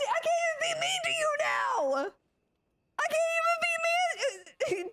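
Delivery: high, teary laughing disbelief; overwhelmed, half sobbing half laughing; laugh-crying. Real, not acted. Streamer to chatter Hexy, laugh-crying.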